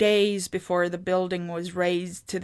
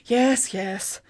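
impatient; 4 semitones higher than usual. A narrator's reading. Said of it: "Sigrid said impatiently".

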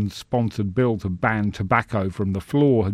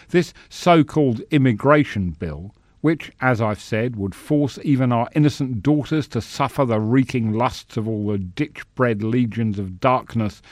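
pompous senator oratory; 2 semitones higher, 3 dB louder than usual. Acted. Senator's speech.

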